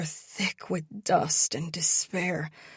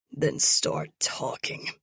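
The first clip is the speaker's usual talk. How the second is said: cold villain; 5 semitones lower than usual. Acted. Captor orders coldly.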